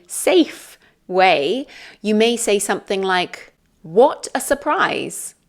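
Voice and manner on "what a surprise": higher, drawn-out exclamation of surprise. Shown as a demonstration. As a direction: demonstrate being pleasantly caught out, slowly. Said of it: "to express our surprise".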